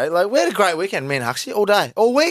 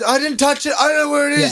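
put-on high, panicked boy insisting innocence; whiny kid; 8 semitones higher than usual. Son pleading innocence to dad in a high panicky voice. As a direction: play the scared son who thinks he's in trouble.

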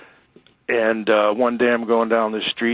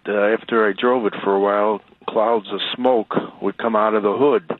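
ordinary talk, nothing marked

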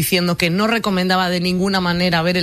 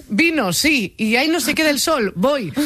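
eager self-quote; 8 semitones higher, slower than usual. Retold or imitated. Retells own eager acceptance of invitation.

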